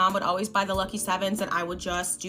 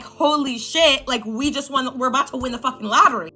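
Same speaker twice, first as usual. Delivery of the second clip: excited; 3 semitones higher than usual. Retold or imitated. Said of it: "and I'm like".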